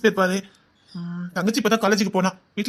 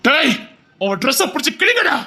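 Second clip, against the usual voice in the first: shouted order; 5 semitones higher than usual. Acted. Thug orders attack.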